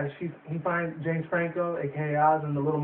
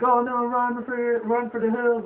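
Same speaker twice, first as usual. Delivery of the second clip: raised slow hammed-up panic; mock panic; 7 semitones higher, 3 dB louder, slower than usual. Fleeing biting plants, hammed-up panic. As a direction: play the alarm big and drawn out. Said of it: "It's like".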